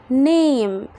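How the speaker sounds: NAME with a long ay. Shown as a demonstration. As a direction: hold the ay in "name". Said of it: "فالصوت هيكون long A". (نطق name بصوت A طويل)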